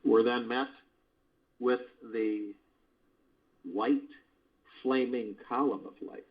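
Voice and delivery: calm, steady meditation narration; guided meditation. Acted. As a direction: guide listeners through the healing light.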